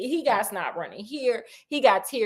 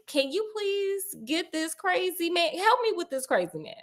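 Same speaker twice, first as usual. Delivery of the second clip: whisper-asking for help with a madman; a hint of nervous pleading; hushed plea; 7 semitones higher, 6 dB quieter than usual.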